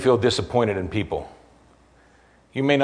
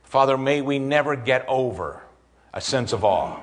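closing prayer. Real, not acted. Pastor leads the congregation in closing prayer, earnest and measured. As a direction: pray it over the congregation.

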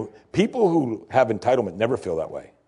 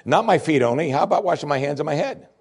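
eager Peter; 5 semitones higher than usual. Acted. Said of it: "only as Peter would".

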